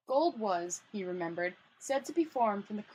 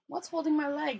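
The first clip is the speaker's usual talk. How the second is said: higher-pitched touch of fright; terror in voice; 5 semitones higher than usual. Acted. Guard gripped by an unseen thing in darkness, mildly terrified. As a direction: ask it with a note of terror. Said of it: "terror in his voice".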